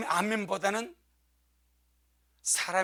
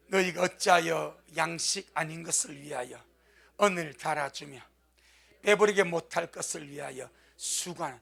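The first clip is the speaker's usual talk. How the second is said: lower-pitched, measured verse reading; scripture recitation; 3 semitones lower than usual. Acted. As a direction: read it out for a congregation to follow. Leads congregation in reading verse.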